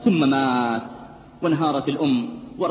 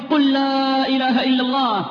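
higher, louder urgent plea; loud, higher pleading at a deathbed; 9 semitones higher, 4 dB louder than usual. Retold or imitated. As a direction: press him to say it, growing desperate. Doctor pleading with dying youth.

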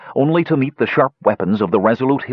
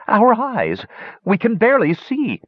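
high, cringing screech; groveling savant screeching to his master; 14 semitones higher than usual. A narrator's reading. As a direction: plead up high from the ground. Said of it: "screeched one".

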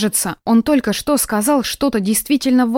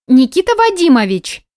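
louder, higher call for the boss; 6 semitones higher, 5 dB louder than usual. A narrator's reading. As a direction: call him from the doorway. Svetochka calling from behind.

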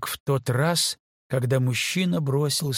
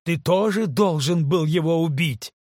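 louder, higher accusing cry; desperate cry; 4 semitones higher, 4 dB louder than usual. Acted. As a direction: fling the accusation at him. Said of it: "в отчаянии воскликнула Кейт".

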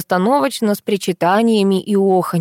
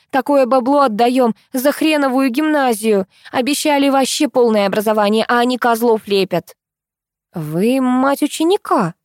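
angry brash woman; 5 semitones higher than usual. Acted. Angry mother berating the class teacher on the phone. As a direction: snap at the teacher like a rich boor. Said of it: "Разозлилась тётка".

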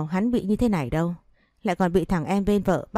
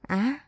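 a quick pained cry, pitched up; short scream; 5 semitones higher, 3 dB quieter than usual. A narrator's reading. Phượng slashed by the knife, short high pained cry. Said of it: "Phượng hét lên".

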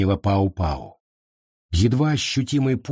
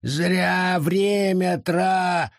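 high, drawn-out words broken off; cut off mid word; 8 semitones higher, much slower than usual. Acted. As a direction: stop short in the middle of a word. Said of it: "лес осёкся на полуслове".

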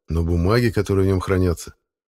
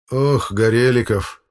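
slow, weary sigh of a name; tired exasperation, slowed; 5 semitones higher, 4 dB louder, slower than usual. A narrator's reading. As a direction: let the breath out in resignation. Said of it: "вздохнул Валерий Михайлович".

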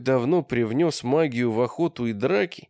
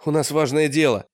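loud; 2 semitones higher, 4 dB louder than usual. Acted. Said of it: "сказал Олег громко".

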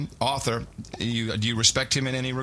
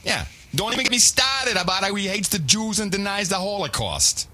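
mocking, badly faked Jewish accent, pitched higher; 8 semitones higher than usual. Mocking the author's clip in a bad Jewish accent. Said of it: "That was a pretty bad Jewish accent".

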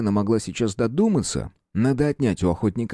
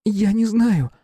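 sincere; 13 semitones higher, 4 dB louder, slower than usual. A narrator's reading. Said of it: "с полнейшей искренностью произнесла".

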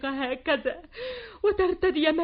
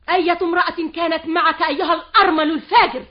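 louder furious charge; angry accusation; 6 dB louder than usual. Acted. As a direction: lash out in accusation. Mother-in-law accuses him. (الحماة تتهمه غاضبة)

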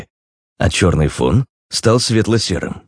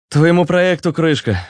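higher-voiced resigned sigh; 11 semitones higher than usual. A narrator's reading. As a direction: give the bad news with a sigh. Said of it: "вздохнул Руслан". (со вздохом, повыше)

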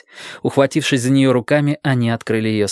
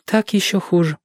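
1 sad; 7 semitones higher than usual. A narrator's reading. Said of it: "печально сказала Джоанна".

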